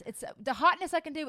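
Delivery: ordinary talk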